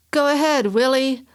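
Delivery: high, loud screech at her son; shrill pushy mother urging her boy on. Acted. A bosomy loud woman screeching at her son Willie. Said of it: "the woman's voice screeched".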